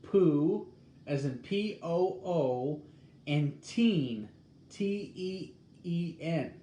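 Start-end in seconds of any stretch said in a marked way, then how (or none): 0.0-0.7 POO said alone, higher and much louder; first syllable demo. Shown as a demonstration. Explaining poutine's pronunciation to viewers, first syllable demo. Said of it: "how you pronounce it is". 3.6-4.3 put-on "teen" said alone, louder, with a long ee; second syllable demo. Shown as a demonstration. Explaining poutine's pronunciation to viewers, second syllable demo. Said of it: "how you pronounce it is".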